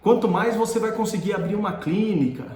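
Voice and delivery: acting out a harsh professor's dressing-down; retold scolding. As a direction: berate the student point by point. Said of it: "ele começou a falar um monte".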